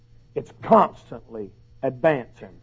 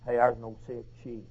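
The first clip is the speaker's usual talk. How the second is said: low, much softer scheming whisper-like voice; sly wolf voice; 4 semitones lower, 16 dB quieter, faster than usual. Retold or imitated. Preacher voices old wolves spotting a sick sheep, sly and soft. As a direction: murmur like a wolf eyeing easy prey. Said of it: "they say".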